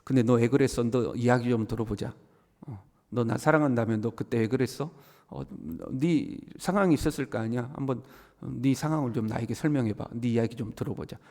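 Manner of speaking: mild, soft questioning of a friend; gentle coaxing. Pretend. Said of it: "좀 더 부드럽게 하면".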